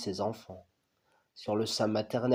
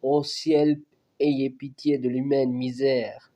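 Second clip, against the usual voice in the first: dying cry for help; 3 semitones higher, 3 dB louder than usual. Acted. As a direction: call out to the sky in anguish. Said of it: "qui crie".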